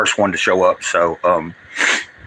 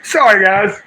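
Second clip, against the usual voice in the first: choked up; 9 semitones higher than usual. Real, not acted. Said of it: "I'm not crying out of".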